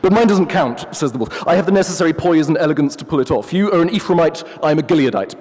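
a hint of a haughty professor; pompous wolf. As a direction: play the wolf as a self-important academic. The wolf boasts.

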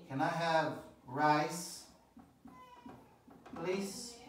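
slow, soft rising please; polite request. Shown as a demonstration. Teacher role-playing ordering in a restaurant politely. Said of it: "Você fala assim, ó".

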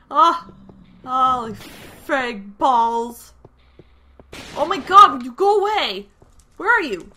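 shrill, loud terrified yells; frantic shouted panic; panicked screaming. Real, not acted. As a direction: scream in real panic as the ghast attacks. Screaming during ghast fight.

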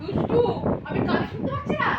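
high mock whine, lightly put on; mocking daughter. Mother mimicking her daughter's "I can't hear", high mock voice. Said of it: "এরকম বলে কানে".

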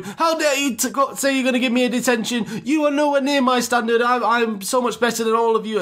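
high-pitched mock indignation; hammed-up snob putting everyone beneath him; arrogant rich kid. Rich kid answering a detention threat, mock arrogant and affronted. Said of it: "going on proper arrogant".

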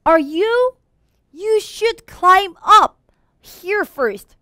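high, slow, drawn-out taunt; mocking sing-song challenge; teasing. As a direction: dare them to follow, teasingly. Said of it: "놀리듯이 얘기를 해요".

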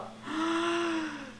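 high, soft drawn-in gasp; startled gasp. Real, not acted. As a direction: suck in breath in alarm. Startled in horror game.

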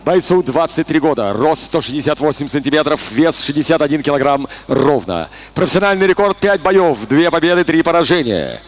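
low, steady stats readout; announcer stat read. Real, not acted. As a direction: read the tale of the tape. Announcer reads fighter stats.

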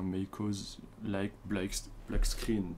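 English read with a French accent; halting English in a real French accent; bad English accent. Real, not acted. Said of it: "Désolé pour mon accent pourri".

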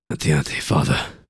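hushed, barely voiced plea; whispered. A narrator's reading. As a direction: whisper it to the priest.

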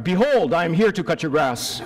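playful mock old-English voice, laughing; mock biblical yard man. Teasing Eli about his yard work in hammed-up biblical style. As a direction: ham up the Bible-speak for the lawn guy. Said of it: "You do, Eli".

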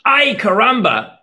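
high, loud startled cry; startled exclamation. Acted. Grandpa startled by a cat in his lap, loud cry. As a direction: jump in surprise as the cat lands.

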